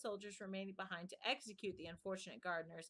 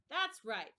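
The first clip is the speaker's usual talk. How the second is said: loud, higher shout of satisfaction; queen shouting her approval; 4 semitones higher, 8 dB louder than usual. A narrator's reading. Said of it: "shouted the queen".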